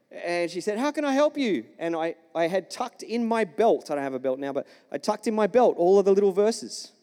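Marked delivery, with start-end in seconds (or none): 0.8-1.7 high-pitched imitation of a German neighbour; lightly put-on German accent, raised pitch; German-accented lady. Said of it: "she had German accent".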